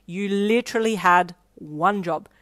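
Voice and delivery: loud, slow deadpan reproach. A narrator's reading. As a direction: scold slowly, unimpressed. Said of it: "She deadpanned".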